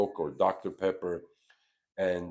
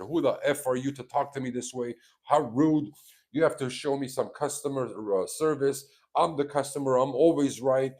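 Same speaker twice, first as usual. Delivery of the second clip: mock tantrum, higher and louder, ranting; mimicking an irate customer; 6 semitones higher, 4 dB louder than usual. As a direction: play the entitled customer blowing up, pitched up. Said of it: "customer went even more ballistic".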